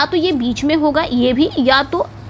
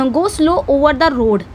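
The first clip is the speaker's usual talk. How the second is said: slow demo read; much slower than usual. Shown as a demonstration. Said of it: "इसमें किसका sound निकल रहा है".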